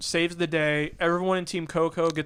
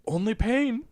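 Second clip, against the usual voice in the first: mock-dramatic, raised hero delivery; movie hero line; 4 semitones higher, slower than usual. Quoting Conan's line to friends, mock-dramatic.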